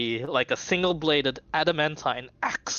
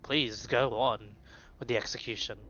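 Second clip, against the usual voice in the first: weary sigh. Acted. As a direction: drag it out like a bored executioner. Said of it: "sighs and he says".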